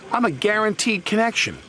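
high-pitched mild grump; grumpy. A narrator's reading. Percy objects to being made to wait, high mild grump. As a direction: protest high, a bit put out. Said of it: "grumped Percy".

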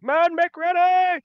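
high, drawn-out military order; shouted command. Acted. Lieutenant pulls his sword before his men, shouted command. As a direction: bellow it down the ranks. Lieutenant calls soldiers to arms.

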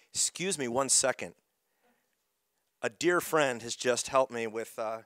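hoarse, strained voice; losing voice. Real, not acted. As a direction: voice giving out, hoarse. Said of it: "you can tell I'm losing my voice".

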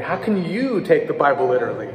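"you" pushed out above the other words; single out "you" with weight; stress on you. Shown as a demonstration. A teacher showing emphasis to the class, stress on you. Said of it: "emphasize different things".

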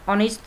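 "honest" with the h silent. Shown as a demonstration. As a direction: start "honest" on the o sound, no h. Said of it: "cái từ này âm h câm".

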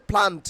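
"প্লান্ট" as phlaant, puffed p; corrected pronunciation. Shown as a demonstration. Teacher drilling learners, "প্লান্ট" with aspirated p. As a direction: aspirate the p of "প্লান্ট", crisp final t. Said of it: "প্লান্টের উচ্চারণ কি হবে".

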